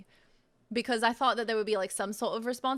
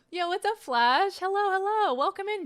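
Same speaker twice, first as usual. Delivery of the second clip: bright hype hello to chat; excited stream greeting; 10 semitones higher, 5 dB louder than usual. Real, not acted. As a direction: call out a big welcome to Flash.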